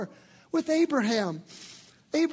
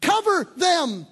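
higher, slow, uplifting proclamation; voice of the new nature; 8 semitones higher, 6 dB louder, slower than usual. Acted. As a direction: proclaim it like a hopeful believer. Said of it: "The new nature says".

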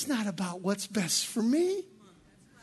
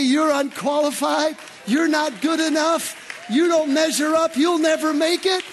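shouted, louder, like a condemning judge; harsh accusing shout; 4 semitones higher, 6 dB louder than usual. Acted. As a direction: hurl the rejection at them. Preacher voices a harsh accuser.

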